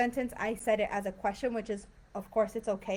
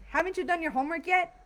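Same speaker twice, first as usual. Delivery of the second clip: frustrated parent; 7 semitones higher, faster than usual. Shown as a demonstration. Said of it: "that's even stronger".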